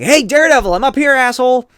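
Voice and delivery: high, loud holler from a rooftop; acted jeering shout; taunting call. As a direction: call out to a foe far below. Villain calls from rooftop.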